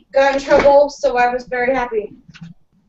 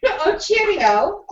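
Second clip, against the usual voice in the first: slow, higher mock English cheerio; slow mock English accent, higher; 6 semitones higher, much slower than usual. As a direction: drawl it like a cartoon Brit. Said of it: "do an English accent".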